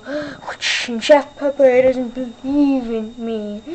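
a hint of a grand vampire; lightly voiced vampire count. Vampire count boasting to Luigi about cereal. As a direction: play the count pompous, a touch slow.

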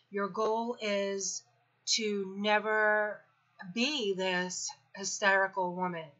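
slowed right down, spelling out the goal; slow, deliberate self-talk. Retold or imitated. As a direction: say it slowly to yourself like a vow. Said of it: "I was like".

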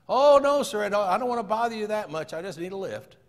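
high, quick protest, easing off at the end; protesting hitchhiker. Acted. Hitchhiker politely refuses the driver's offer, protesting. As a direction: start loud and high, then settle down.

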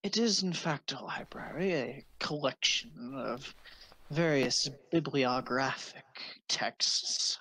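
a hint of a polite old sage; elderly wizard. GM voices the wizard.

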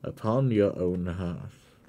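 solemn invocation. Acted. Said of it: "raised its hand and said".

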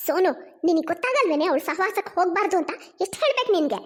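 cross mother rebuking her daughter, climbing at the end; angry scolding. Acted. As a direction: scold your child with mounting irritation. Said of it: "ಕೋಪದಲ್ಲಿ ಚಿತ್ರ ಅಲ್ಲಿಗೆ ಬರ್ತಾಳೆ".

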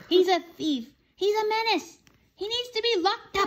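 high loud witchy shriek; furious high witch voice; witch shouting. A narrator's reading. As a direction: shriek accusations like a wicked witch. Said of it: "shouted the wicked witch".

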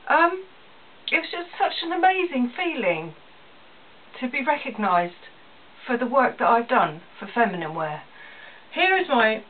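choked up while remembering the win; getting emotional. Real, not acted. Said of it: "I'm getting a bit emotional now".

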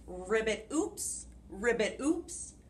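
frog voice. Acted. Frog sound in story.

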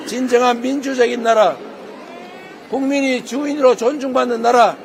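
normal talking voice

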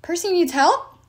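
high, slow calling voice; called out. A narrator's reading. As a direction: call across the battlefield. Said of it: "Tyson called".

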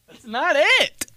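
high-pitched mock outrage; exasperated protest. Son correcting dad's Italy, high exasperated protest. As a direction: squeal the objection, hammed-up.

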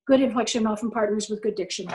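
level, lifeless drone; droning monotone. Shown as a demonstration. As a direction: read it like a bored lecturer. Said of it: "That's really terrible".

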